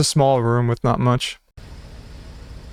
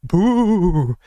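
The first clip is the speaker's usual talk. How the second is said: startling boo; 4 semitones higher than usual. Pretend. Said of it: "Did I scare you?".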